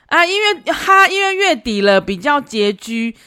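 high, drawn-out sheepish guy voice; mock sheepish boyfriend, slow and high; sheepish excuse. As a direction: play him awkwardly stalling. Man's sheepish excuse retold.

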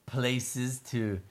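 happy mole. Acted. Mole admiring his new place to live, slow pleased character voice. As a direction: savor each phrase slowly as the mole. Mole's speech in story.

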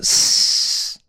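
slow whispered hiss; vampire hiss. Retold or imitated. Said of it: "这样". (吸血鬼嘶嘶声)

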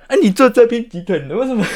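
high, loud mock protest; laughing mock outrage. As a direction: throw it back, laughing. Repeating accusation laughing.

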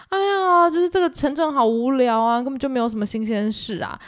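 hammed-up whine about a boring town; mock wailing. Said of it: "她们三个人就每天哀嚎".

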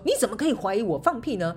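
mildly acted indignant boss; understated mock anger at being accused; angry retort. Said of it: "他也可以很愤怒地说".

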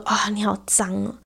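soft unvoiced mock-sultry 'you're so dirty'; whispered tease.

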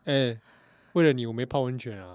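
mock complaint. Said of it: "跟他抱怨，跟他说".

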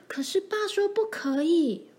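high, hushed objection; frightened whisper. A narrator's reading. Mary reminds her sibling of father's rule, whispering. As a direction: whisper it high, afraid to speak up. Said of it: "一边小声地说话".

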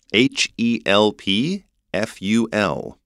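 H E L P F U L named letter by letter, slowly; spelled out. Shown as a demonstration. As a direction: spell H E L P F U L one letter at a time. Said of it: "how can we spell it?". (慢慢逐个字母拼出H E L P F U L)

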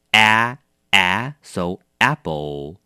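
slow 啊，啊 with lips spread flat, then apple; drawn-out vowel demo. Shown as a demonstration. Teacher coaching the vowel of apple slowly. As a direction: stretch the mouth wide and hold the vowel. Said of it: "你一定要嘴巴拉开，压扁".

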